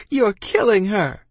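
high, drawn-out desperate accusation; hollered accusation. A narrator's reading. Boy accusing captain over dying ma, hollered. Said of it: "I hollered".

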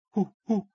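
chimp hoots. Acted. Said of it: "I said".

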